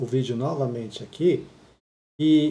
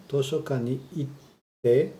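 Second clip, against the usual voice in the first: slow model reading; much slower than usual. Shown as a demonstration.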